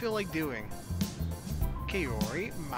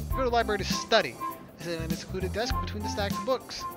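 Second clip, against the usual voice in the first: slightly lifted storytelling voice; story narration; 4 semitones higher than usual. A narrator's reading. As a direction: read the scene out like a novel. Reads the game's narration.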